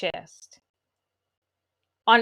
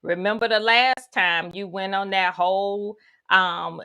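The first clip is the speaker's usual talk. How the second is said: sassy self-talk; 3 semitones lower than usual. Acted. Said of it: "you would probably say something like".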